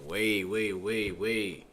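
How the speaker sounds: frantic excuses to the teacher, building loud; scrambling to excuse himself to the teacher; mock panic. Panicking student caught by teacher.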